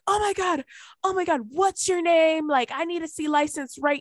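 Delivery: high, worked-up mock indignation; imitated outraged kid. Kid confronts dog walker over attack, mock outraged. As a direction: act out a panicked, demanding dog owner.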